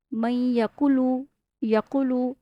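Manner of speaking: یقولو with the لام wrongly stretched and a و added, slow; mock the wrong recitation; common mistake. Shown as a demonstration. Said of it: "لیکن common mistake". (غلط تلاوت کی مثال)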